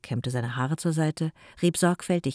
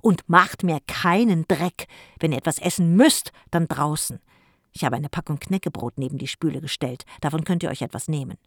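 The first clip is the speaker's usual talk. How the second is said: calling out; 5 dB louder than usual. Acted. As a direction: call back a last bossy order. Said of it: "rief er ihnen noch zu".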